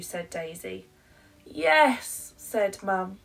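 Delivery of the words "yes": eager mum. Acted.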